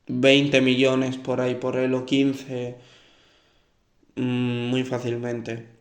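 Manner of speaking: congested, hoarse voice of a cold. Real, not acted. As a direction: talk through a head cold. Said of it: "es porque estoy resfriado".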